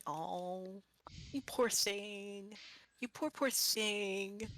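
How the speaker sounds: slow, tender "you poor thing"; pitying coo. Acted. Healer patting the golem's hand, slow and tender. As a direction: comfort him like a hurt pet. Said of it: "just sort of pat it and say".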